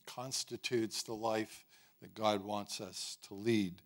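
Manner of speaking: speaking through a tickly throat; choked-up, gagging throat; throat clearing. Real, not acted. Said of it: "Sorry for my choking and gagging this morning".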